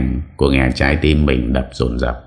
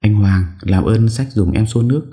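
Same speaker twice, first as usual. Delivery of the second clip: calling out; 8 semitones higher than usual. Acted. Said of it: "Có tiếng Lệ gọi lớn".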